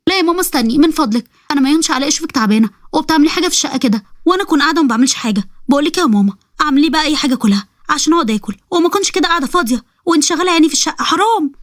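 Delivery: lightly voiced daughter sweet-talking her mother; wheedling daughter.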